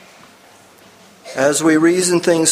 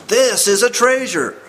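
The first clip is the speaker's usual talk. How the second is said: excited exclamation; 11 semitones higher than usual. A narrator's reading. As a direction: call out in sudden amazement. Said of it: "exclaimed Morse".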